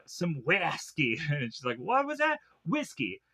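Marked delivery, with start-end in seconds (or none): 0.1-1.2 put-on drawled accent slip on "whiskey"; slow, slipped-accent mock answer; Gus/character. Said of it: "starts to sound like Gus". 1.8-2.4 high-pitched puzzled question; imitated confused double-take; mock bewilderment. Emily questions what he said.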